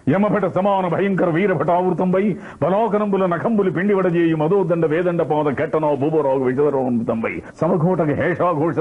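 high, grand mocking declamation; S V Ranga Rao as Chanakya. Shown as a demonstration. Mimic imagining Ranga Rao playing Chanakya, high grand declaiming. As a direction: thunder it like a scornful minister. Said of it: "SV Rangarao చాణక్యుడు వేస్తే ఎలా".

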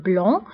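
"blanc" said as blan, nasal, with no c; silent final c. Shown as a demonstration. Teacher showing students that the c of blanc is silent. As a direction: end "blanc" on the nasal vowel and drop the c. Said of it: "ما كنتقولش سي في آخر الكلمة".

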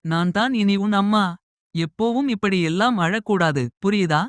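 lightly voiced mother, comforting; motherly voice.

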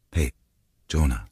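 restrained, tender opening; trying to stay calm. A narrator's reading. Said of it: "ganz ruhig zu sprechen".

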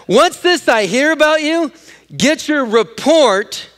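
high, forceful confrontation, slowing at the end; acted angry boss. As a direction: play the boss calling someone to account. Acts boss confronting the manager.

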